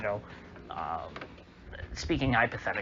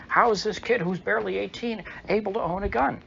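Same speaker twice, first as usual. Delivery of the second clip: higher, mildly raised mocking yell; mock shout; 9 semitones higher, 4 dB louder than usual. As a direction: throw it out like an indignant heckler. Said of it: "when he shouts".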